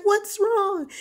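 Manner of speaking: high-pitched alarmed question; very high, anxious call; retold panic. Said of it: "All I know is he's screaming".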